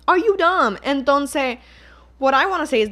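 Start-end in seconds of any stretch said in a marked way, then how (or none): 0.1-0.8 Are you dumb? higher and louder, stress on you; louder exasperated repeat. Real, not acted. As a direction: hit "you" hard, pitch up in disbelief. Repeated insult, louder second take.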